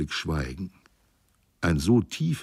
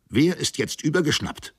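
bedrückt; 10 semitones higher than usual. A narrator's reading. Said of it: "rief eine Stimme bedrückt aus".

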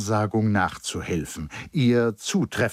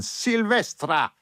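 called out name; 12 semitones higher, slower than usual. A narrator's reading. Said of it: "rief der Giovanotto von unten".

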